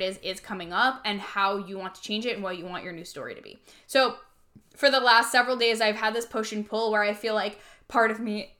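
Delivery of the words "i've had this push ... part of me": hiccuping mid-sentence; with hiccups. Real, not acted. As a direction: talk through hiccups. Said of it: "sorry, I have the hiccups".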